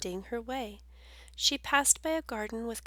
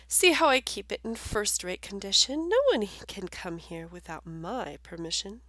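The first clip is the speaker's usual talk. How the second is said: proud gardener. Acted. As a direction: claim the garden as your own. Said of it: "The gardener answered".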